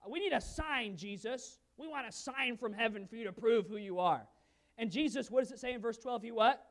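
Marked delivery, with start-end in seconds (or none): 0.1-4.3 a demanding, louder Pharisee plea. Retold or imitated. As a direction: push Jesus for proof. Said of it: "the Pharisees came forth".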